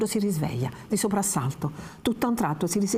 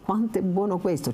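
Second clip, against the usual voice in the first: tempting relish; 4 semitones higher than usual. Acted. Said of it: "cercando di convincere Lucia".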